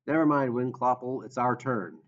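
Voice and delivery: impatient snarl. Acted. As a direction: snap it at her. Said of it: "Hu snarled".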